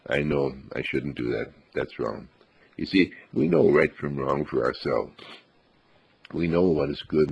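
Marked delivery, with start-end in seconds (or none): 0.1-2.3 put-on sheepish child. Child admitting naughtiness, fading.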